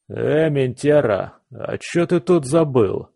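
slow, slurred drunk voice, lightly voiced; a drunk leaning on your shoulder; town drunk. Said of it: "раздался пьяный голос". (пьяный голос, слегка сыгранный)

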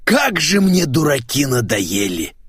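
slow, worn-out complaint; weary. Acted. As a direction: sigh it out, fed up with everyone. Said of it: "устало произнёс Николай".

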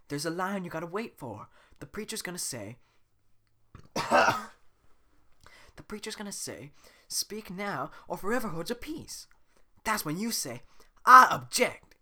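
high, eager explaining; excited Donkey voice. Acted. Donkey coaching Shrek on the objection, high and eager. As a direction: rattle it off with building excitement.

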